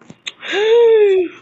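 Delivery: sharp loud gasp of shock; big dramatic gasp. Real, not acted. Shocked on seeing friend return.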